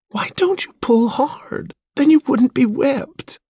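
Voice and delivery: very high, airy tearful-sounding appeal; sympathetic plea. A narrator's reading. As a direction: plead pityingly with the dog. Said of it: "she cried sympathetically".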